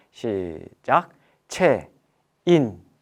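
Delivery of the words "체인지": clipped, separated syllables, louder. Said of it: "또박또박 끊어서".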